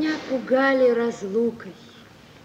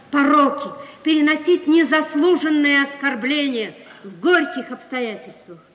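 louder, fervent, speeding on the middle line; impassioned speech; 6 dB louder than usual. Acted. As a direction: preach a wife's endless patience. Wife's impassioned speech on devotion. (страстно, с нажимом)

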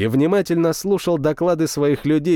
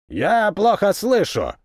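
wry smirk; 6 semitones higher, slower than usual. A narrator's reading. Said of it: "с лёгкой усмешкой".

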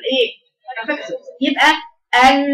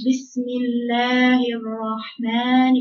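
slow, weak careless basmala; lazy recitation; much slower than usual. Shown as a demonstration. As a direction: read it as if tired and sick. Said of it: "كأن واحد إيه؟". (قراءة كسلانة ضعيفة)

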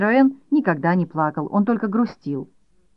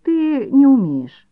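slow, high, louder scornful jab; boy scorning his mother's fake crying, slow and high; contemptuous; 8 semitones higher, 6 dB louder, slower than usual. A narrator's reading. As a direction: sneer it slowly, stressing не. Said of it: "презрительно изрёк Ноэль".

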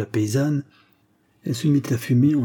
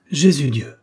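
a startled cry, louder; 4 semitones higher, 5 dB louder than usual. Acted. The peasant woman reacts to the word thieves with an outcry. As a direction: throw the hands up and cry it out. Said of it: "s'écria la paysanne".

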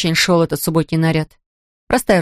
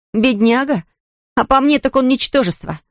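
higher, scornful retort; scornful snort; 7 semitones higher than usual. A narrator's reading. Kerensa scoffs at Polly's pity for Chris, snorting. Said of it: "фыркнула Керенса".

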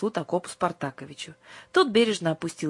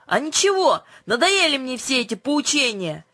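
much higher, louder angry retort; fed-up outburst; 9 semitones higher, 5 dB louder than usual. A narrator's reading. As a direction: fling it out and storm off. Юлька storms off annoyed. (раздражённо, громко и выше)

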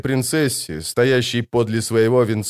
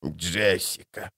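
slow, much softer hiss; 6 semitones lower, 9 dB quieter, much slower than usual. A narrator's reading. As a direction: hiss the name, shaken. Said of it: "прошипела она". (медленное тихое шипение)

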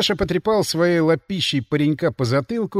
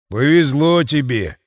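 slow, wry sarcastic line; wry smirk; 5 dB louder, slower than usual. Acted. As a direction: say it with a crooked grin. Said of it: "криво усмехнулся Ворон".

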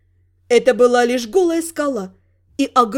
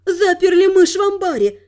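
laughing; 5 semitones higher than usual. Acted. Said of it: "невольно рассмеялась Элька".

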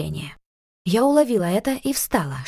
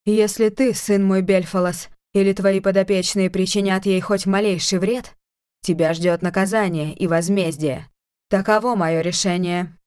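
menacing otherworldly voice. Acted. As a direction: warn them like a threatening oracle. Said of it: "угрожающе продолжила".

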